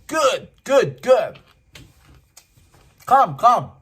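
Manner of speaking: very high, loud eager shouting; high loud mock shout of a stranger; excited yell. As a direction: yell it up, overjoyed. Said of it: "he just yelled".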